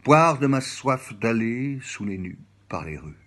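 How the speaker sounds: flowing recital, phrase chained onto phrase; poem recitation. Acted. Jacques illustrating poetry for the listeners, reciting. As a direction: recite it as a run of linked images.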